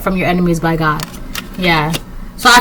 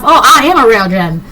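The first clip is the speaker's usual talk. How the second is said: light accidental Southern twang; southern accent. Acted. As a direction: slip briefly into a Southern accent. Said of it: "like, a southern accent".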